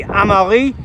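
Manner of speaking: name said in a French way; French accent. Shown as a demonstration. Commentator reading out number nine's name, French accent. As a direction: pronounce the name as the French would.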